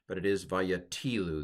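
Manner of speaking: Vayatilu with stress on the second to last syllable, va-ya-TI-lu; Hebrew pronunciation. Shown as a demonstration. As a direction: lean on the TI in Vayatilu. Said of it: "The accent's on the second to last syllable".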